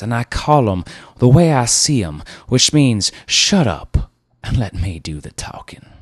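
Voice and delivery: put-on steamroll the young man; bossy car dealer. Car dealer Rivers telling the ad man to shut up, overbearing.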